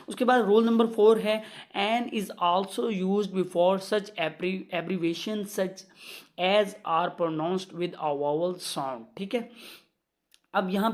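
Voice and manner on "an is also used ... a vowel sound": very slow, word-by-word classroom reading; measured dictation of a grammar rule. Shown as a demonstration. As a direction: dictate the rule so students can write it down.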